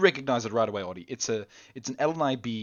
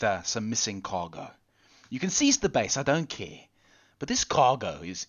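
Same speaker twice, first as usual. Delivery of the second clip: a hint of an exasperated officer, louder and higher; frustrated station chief; 4 semitones higher, 4 dB louder than usual. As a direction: push the complaint harder as it goes. GM voices frustrated Riley.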